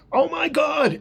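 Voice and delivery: high, drawn-out mock scream, held back in volume; retold guttural scream. Grandfather recounting finding the children in the ditch, imitated scream. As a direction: imitate a panicked cry, pitch leaping up. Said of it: "I gutturally, I scream out".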